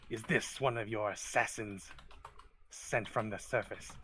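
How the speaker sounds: sling it as a mild accusation; accusing kobold. Acted. Kobold challenges the visitor about Dorian, accusing. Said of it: "as if slinging accusation".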